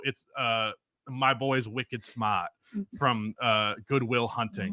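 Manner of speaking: put-on a soft, slow Boston accent line; quiet, drawn-out Boston accent from Good Will Hunting. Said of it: "I don't have a good Boston accent".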